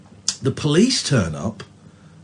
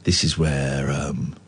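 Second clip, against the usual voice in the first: hushed dread; 10 semitones lower, 6 dB quieter than usual. Retold or imitated. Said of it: "I'm thinking".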